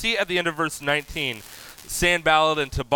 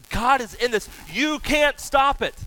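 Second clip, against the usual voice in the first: much higher, firm defiant cry; bold defiance; 10 semitones higher, 4 dB louder than usual. Retold or imitated. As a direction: say it like nothing can stop you. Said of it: "he doesn't mess around".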